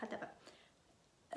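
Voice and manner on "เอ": เอ with lips slightly rounded, like Finnish ö. Shown as a demonstration. Teacher shows Finnish ö as เอ with rounded lips. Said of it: "ห่อปากนิดนึงนะคะ".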